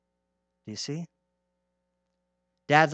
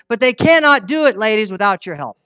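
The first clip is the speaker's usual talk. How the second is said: forceful appeal; 3 semitones higher, 6 dB louder than usual. Real, not acted. Preacher urging the ladies in church, loud and forceful. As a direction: raise the voice and press the plea to the women.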